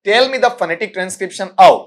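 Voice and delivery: each word spelled out very slowly; slow dictation. Shown as a demonstration. Teacher slowly dictating the correct question to students. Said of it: "और इसको आप single quote में रखो".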